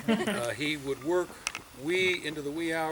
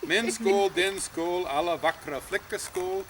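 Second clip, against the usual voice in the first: Swedish toast; 4 semitones higher, 3 dB louder than usual. Retold or imitated. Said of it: "for my sake, for your sake".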